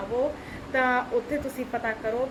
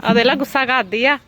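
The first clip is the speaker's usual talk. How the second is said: loud teasing complaint, usual pitch; dramatic loud aunty; 10 dB louder than usual. Real, not acted. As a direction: repeat the tattle loudly. Repeats the tattle loudly.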